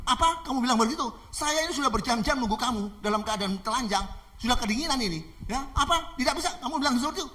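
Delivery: high indignant rant; acted outrage, complaining at being refused; angry attacker. Man grumbling at the girl's defiance, angry. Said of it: "sambil marah-marah".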